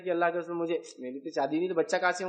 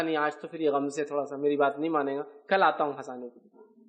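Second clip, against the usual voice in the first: gentle reply; 6 semitones lower than usual. Retold or imitated. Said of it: "تو آپ نے کہا".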